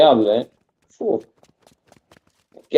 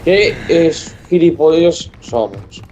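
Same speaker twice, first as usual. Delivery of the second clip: slow, drawn-out groaning lament; dejected disbelief; 2 semitones higher, much slower than usual. Real, not acted. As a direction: drag it out, defeated. Lost to a bot.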